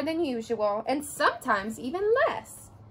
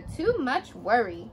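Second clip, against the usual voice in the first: slow grandmother; slower than usual. Acted. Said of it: "said her grandmother".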